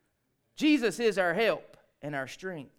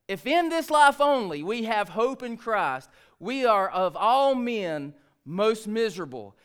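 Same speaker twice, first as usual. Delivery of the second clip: slow, firm verse reading at full voice; measured, weighty pulpit reading; emphatic scripture reading; slower than usual. Shown as a demonstration. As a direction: proclaim it slowly, phrase by phrase. Repeats the verse more firmly.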